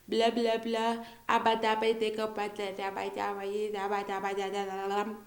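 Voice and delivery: lightly voiced baby babbling nonsense; baby babble. Shown as a demonstration. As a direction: babble like a baby, a touch childlike. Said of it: "A lot of babies speak gibberish".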